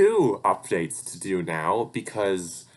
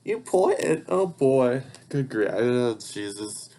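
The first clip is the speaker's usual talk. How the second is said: higher-pitched accidental New York accent; exaggerated New York accent, pitched up; slipped-in New York accent; 5 semitones higher, 3 dB louder, slower than usual. Real, not acted. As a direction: let a New York accent slip out on the word. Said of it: "I just do an accent".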